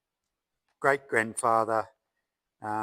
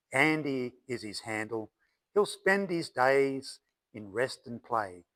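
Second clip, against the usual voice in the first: measured verse with lifted line openings, falling endings; poem recital. Acted. Poet shares his verse about an old horse, poem recital. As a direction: recite it in steady rhyming couplets, pausing between lines.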